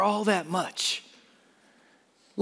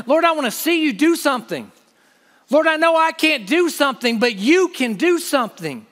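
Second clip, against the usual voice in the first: pleading prayer, pitched higher; crying out to God; 4 semitones higher than usual. Acted. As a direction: cry out to the Lord with longing. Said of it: "Here's what he's crying out for".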